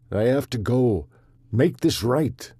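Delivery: breathless, chest tight; out of breath. Acted. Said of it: "out of breath from the constriction".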